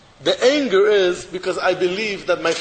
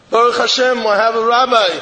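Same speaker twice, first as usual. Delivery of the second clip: louder, insistent proud husband; proud declaration; 2 semitones higher, 5 dB louder than usual. Acted. Husband answering his wife, proud and loud.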